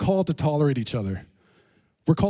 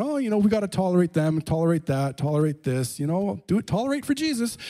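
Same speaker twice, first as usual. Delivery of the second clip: mocking the tolerate crowd; 2 semitones higher than usual. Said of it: "I know that word gets told around".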